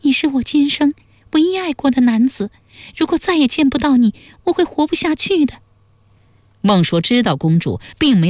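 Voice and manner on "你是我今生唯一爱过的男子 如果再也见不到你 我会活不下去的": high-pitched princess, gently pleading; high character voice, coaxing with tender words. A narrator's reading. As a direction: voice a loving princess, pitched far up. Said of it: "又柔声补充说".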